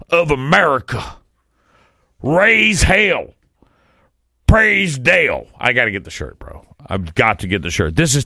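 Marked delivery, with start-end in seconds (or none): 2.2-5.5 higher, slow punchy chant; rally cry. Shown as a demonstration. Host chanting the slogan after the NASCAR history. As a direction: call it out like a fan in the stands. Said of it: "I don't know why I have to say it like that".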